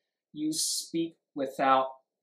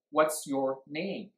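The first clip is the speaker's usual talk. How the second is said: slow, with "name" dropping in pitch; falling question tune; much slower than usual. Shown as a demonstration. Teacher demonstrating question intonation, slow fall on "name". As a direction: bring "name" down at the end. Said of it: "So it goes down".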